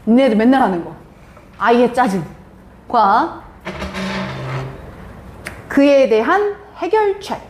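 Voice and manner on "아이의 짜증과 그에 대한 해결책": slow dictation. Shown as a demonstration. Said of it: "부릅니다".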